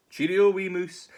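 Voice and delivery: high, loud nervous goodbye; alarmed fox farewell. Acted. Todd fleeing the gruffalo, high loud farewell. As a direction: shout goodbye in a fright.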